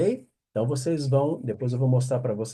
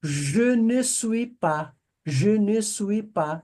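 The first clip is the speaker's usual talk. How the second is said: slow negation drill; 6 semitones higher, slower than usual. Shown as a demonstration. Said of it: "Se eu disser".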